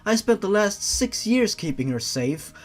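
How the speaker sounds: a hint of a daughter begging; pleading daughter.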